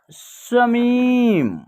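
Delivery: समीम said slowly as the finished blended word; sounding out a word. Shown as a demonstration. Teacher blending syllables into समीम, drawn out. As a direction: draw out समीम for learners. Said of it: "म में बड़ी की मात्रा मी".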